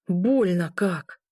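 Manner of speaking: slow, dragged-out groan of pain. A narrator's reading. Wounded man groaning as she helps him walk. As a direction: stretch the words out like it hurts to speak. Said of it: "и вновь застонал".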